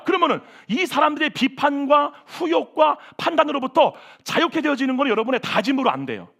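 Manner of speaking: ordinary delivery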